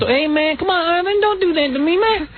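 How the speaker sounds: high-pitched imitation of Black American speech; black-guy impression. Shown as a demonstration. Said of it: "I've talked like a black guy".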